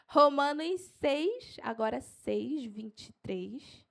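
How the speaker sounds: unhurried, spaced-out citation; slow for note-taking. Shown as a demonstration. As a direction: spell out the reference slowly for writers. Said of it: "Eu vou falar devagar".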